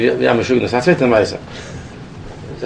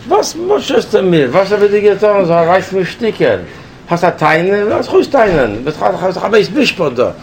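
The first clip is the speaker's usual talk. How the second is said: higher, slow, aggrieved protest; indignant plea; 5 semitones higher than usual. Retold or imitated. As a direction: plead as if wronged, slowly. Retold indignant plea to guard. (empörtes Flehen, höher und langsam)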